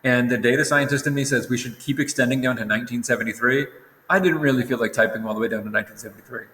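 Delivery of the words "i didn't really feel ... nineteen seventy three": yawning. Real, not acted. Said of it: "Sorry, I keep yawning".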